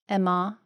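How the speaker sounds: Emma said as EM-MAH with open final A; German pronunciation. Retold or imitated. Guest imitates how Germans say her first name, German pronunciation of Emma as EM-MAH. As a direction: tentatively say Emma the German way, ending in AH. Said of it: "Didn't they just say".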